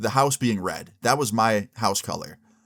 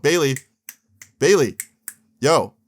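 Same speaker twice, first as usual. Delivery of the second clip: calling out loudly; 3 semitones higher, 5 dB louder than usual. Retold or imitated. Calling out to wake him.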